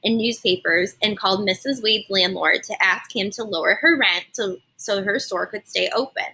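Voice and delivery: put-on lively read-aloud narration for kids; expressive storybook reading for a class; story narration. A narrator's reading. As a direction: tell it like storytime on the rug. Teacher reads story aloud.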